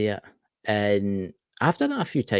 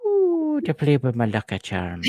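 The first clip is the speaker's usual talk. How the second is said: mock leprechaun; 2 semitones higher, slower than usual. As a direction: tease like a cheeky leprechaun. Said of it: "leprechaun outfit".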